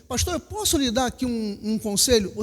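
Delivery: soft polite request to the pastor. Retold or imitated. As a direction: humbly ask the pastor for leave to advise. Imagined polite church member.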